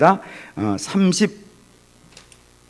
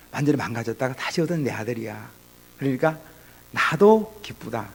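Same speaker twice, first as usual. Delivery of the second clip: gentle father. Retold or imitated. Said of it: "그렇게 얘기를 하는 거죠". (부드럽고 다정한 아버지 목소리)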